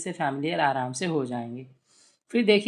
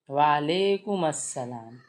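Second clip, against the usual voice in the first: slow reply demo; 3 semitones lower, slower than usual. Shown as a demonstration. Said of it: "एक बच्चों ने सीखा".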